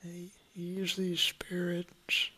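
hushed playful whisper. Acted. Playful hushed aside in prank bit.

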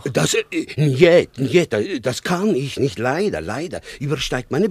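high, loud panicky no; a panicked official caught between orders; flustered refusal. Acted. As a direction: blurt it out, cornered and alarmed.

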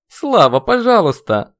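loud, high urgent plea; pleading. A narrator's reading. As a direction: beg him to stop. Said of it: "взмолился Яромил". (умоляющий возглас)

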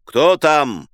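loud wary call down the stairs; shouted who's there. Acted. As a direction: bark it at the door. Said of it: "внизу крикнул".

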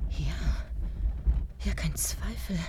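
hushed whisper. Acted. Heimliche Entdeckung, geflüstert.

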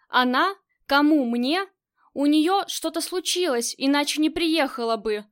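loud indignant disbelief. Acted. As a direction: exclaim it, outraged. Строгач возмущён.

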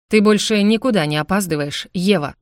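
a mild, understated bark; barked order. Acted. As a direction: snap it at her as a command. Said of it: "рявкнул в ответ".

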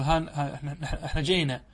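lightly voiced colloquial Arabic, casual and amused; colloquial dialect. Shown as a demonstration. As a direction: slip into everyday spoken Arabic dialect with a chuckle. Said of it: "نستعملها في اللهجة العامية". (لهجة عامية خفيفة مع ضحكة)

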